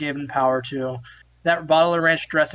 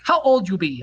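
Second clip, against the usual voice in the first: mock Norwegian accent. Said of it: "this accent is".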